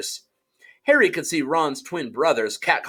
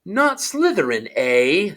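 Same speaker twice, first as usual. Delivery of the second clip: higher, amused hat voice; the hat echoing him with interest; small voice; 3 semitones higher, slower than usual. Acted. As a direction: tease the boy's plea back. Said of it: "said the small voice".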